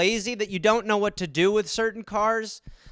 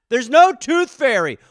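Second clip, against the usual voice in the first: higher, loud, emphatic; exasperated parent; 6 semitones higher, 6 dB louder than usual. Acted. Parent repeats truth to grown son, exasperated. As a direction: drive it home, fed up.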